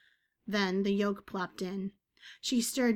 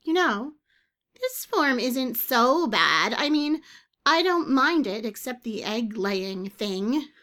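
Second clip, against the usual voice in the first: higher, louder, slow bird voice; musing bird creature; 4 semitones higher, 7 dB louder, slower than usual. Acted. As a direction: muse as the bird. Bird musing on new form.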